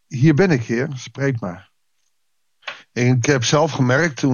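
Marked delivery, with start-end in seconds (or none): 0.1-1.7 humble surrender. Acted. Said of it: "onze weerstand opbreken en zeggen".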